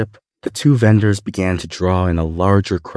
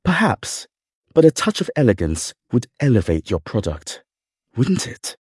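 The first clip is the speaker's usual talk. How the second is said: lightly voiced, wry butler; high lilt on the ends, amused; 4 semitones higher than usual. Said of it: "slightly amused".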